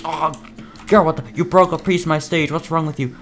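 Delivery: put-on squeaky outraged kid; high kid voice. Kid voiced scolding another kid.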